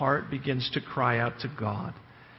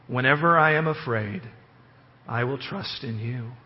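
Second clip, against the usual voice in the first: scripture reading. Acted. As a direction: read the verses with reverence. Reads psalm aloud.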